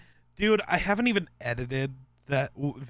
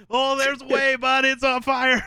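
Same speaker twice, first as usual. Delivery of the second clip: high, louder quoted retort; mock deadpan reply; 9 semitones higher, 5 dB louder than usual. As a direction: fire back like it's obvious. Quoting replies in the video.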